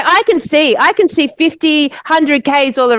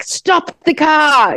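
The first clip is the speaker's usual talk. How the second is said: imitating her angry order, slow and drawn-out, raised pitch; retold angry command; 4 semitones higher, much slower than usual. Friend suddenly orders the driver to stop, retold angry command. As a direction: stretch out a retold, urgent demand. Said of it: "starts talking in a Russian accent, really angry at me".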